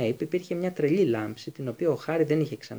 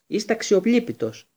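higher, louder angry cry; shout; 8 semitones higher, 6 dB louder than usual. A narrator's reading. Student shouting at his teacher, outraged. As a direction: fling it at him in a shout. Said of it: "φώναξε ο Χάρι".

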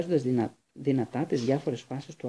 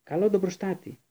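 shouted spell; 6 semitones higher than usual. A narrator's reading. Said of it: "βροντοφώναξε".

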